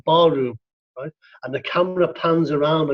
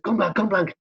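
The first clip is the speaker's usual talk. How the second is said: mock shout; 5 semitones higher than usual. Shown as a demonstration. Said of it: "you shout to your, your partner".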